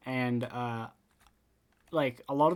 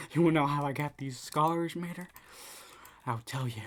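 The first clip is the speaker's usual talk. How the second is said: Joker; 2 semitones higher than usual. Pretend. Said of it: "Joker edition".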